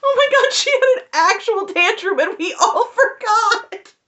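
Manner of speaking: high, loud laugh through the words; laughing disbelief. Real, not acted. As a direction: crack up in disbelief. Laughing at forgotten tantrum.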